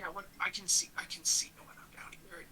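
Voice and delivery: soft, unvoiced whisper. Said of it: "even when I try to whisper".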